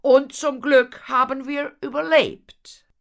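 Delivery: high, loud exclamation; elated. Acted. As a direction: exult at the lucky escape. Horatio beams about surviving. (jubelnd, hoch und laut)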